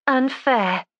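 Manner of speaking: high, sharp disbelief; indignant. A narrator's reading. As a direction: throw the word back in surprise. Judy indignant at the accusation.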